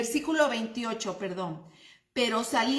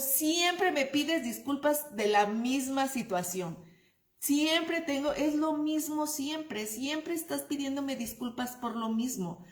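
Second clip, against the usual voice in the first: exasperated complaint; 3 semitones higher than usual. Retold or imitated. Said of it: "que a veces decimos".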